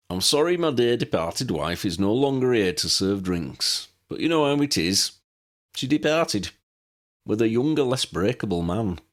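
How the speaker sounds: lightly voiced eccentric old man, fond and wry; old pilot Pelicus. Old pilot showing guests his plane, lightly voiced old man. Pelicus jokes about wife.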